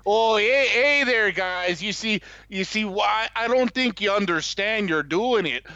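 folksy North Dakota groundskeeper voice; friendly Upper Midwest accent. Acted. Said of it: "a North Dakota accent".

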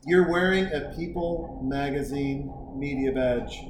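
deliberate, softly spoken dressing-down; disapproving buddy. Retold or imitated. Buddy scolding him over the media badge, quiet stern reprimand. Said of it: "my buddy's like".

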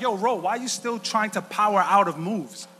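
rising to a loud shout with a cry; coach yelling. Retold or imitated. Jiu-jitsu coach scolding his student, growing to a shout. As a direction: build from a question to a yell. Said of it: "he's like".

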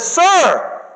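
a touch of excited pleading. Acted. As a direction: she can't wait to get it. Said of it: "She gets excited and says".

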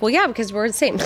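laughing. Retold or imitated. Laughing retold reply.

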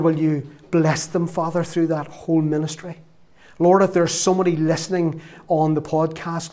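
earnest, steady prayer voice that softens at the end; closing prayer. Acted. Preacher prays over the congregation and podcast listeners. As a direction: pray for the people with fervent, steady conviction.

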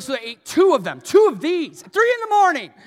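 rising to a loud, high comic shout; building comic shout. Real, not acted. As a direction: build the confession into a big laughing yell. Excited climax of confession.

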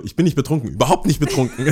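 lachend übertriebene Unschuldsbeteuerung; leugnen, als hätte man was zu verbergen; verdächtig beteuernd. Shown as a demonstration. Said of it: "Das klingt immer so verdächtig". (verdächtiges Abstreiten)

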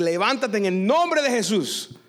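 mandato solemne, alargando las palabras; orden emocionada. Retold or imitated. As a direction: ordenar con fervor, lento. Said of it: "me emocioné y dije". (orden de fe emocionada)

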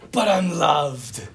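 slow, low, toned-down echo; gentle quoting. Retold or imitated. Preacher repeating the priest's saying to sum up the human condition, gentle and slow. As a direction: say it slowly, letting it fall gently. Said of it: "such a great way of saying".

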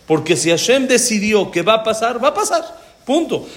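high, laughing punchline; chuckling as he drives it in; laughing emphasis. Real, not acted. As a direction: laugh the point home.

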